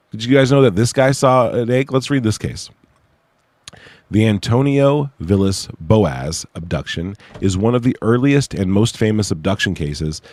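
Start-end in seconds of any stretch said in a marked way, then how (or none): 4.1-10.2 s sounds whistle through the teeth; lisping whistle on each s; whistling s sounds. Real, not acted. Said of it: "Sorry for whistling when I say that".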